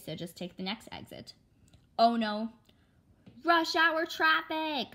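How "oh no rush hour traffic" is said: higher, louder, slow groan; groaning dismay. Acted. Mother seeing the traffic jam ahead, groaning. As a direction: drag the words out in dismay.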